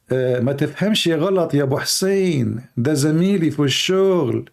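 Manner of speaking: quick Egyptian Arabic, lightly played wife; a wife soothing her husband in an Egyptian accent. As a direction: rattle it off fast in an Egyptian accent. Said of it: "This is Egyptian accent".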